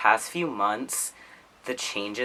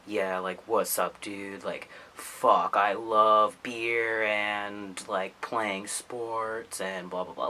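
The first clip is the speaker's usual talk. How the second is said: light mock dude-bro voice; half-hearted jock impression, only slightly put on; slower than usual. Shown as a demonstration. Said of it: "I can do a bro voice".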